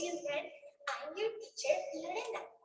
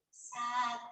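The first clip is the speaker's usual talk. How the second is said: sad; 5 semitones lower than usual. Shown as a demonstration. Teacher acting out the sad emotion.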